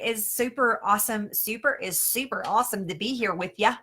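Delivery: lightly put-on Midwest accent. Host signing off to viewers in a mock Midwest accent. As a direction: slip playfully into a Fargo-style Midwest accent. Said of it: "that was my best, um, Midwest accent".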